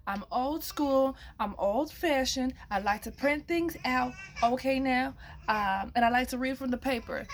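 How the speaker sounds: slightly hoarse, rough-edged voice. Real, not acted. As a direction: talk through a hoarse throat. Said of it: "please excuse my voice".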